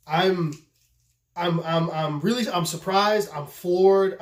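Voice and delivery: stammering, then firmer in amazement; speechless surprise. Real, not acted. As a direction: stumble into admitting real astonishment. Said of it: "speechless right now because".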